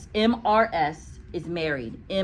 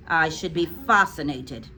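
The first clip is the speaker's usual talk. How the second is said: sarcastic; 3 dB louder than usual. Acted. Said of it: "in a voice dripping with sarcasm".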